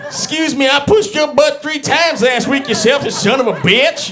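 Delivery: high, outraged shouting friend; hammed-up outrage; mock indignant. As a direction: huff back at the selfish friend. Acted indignant reply.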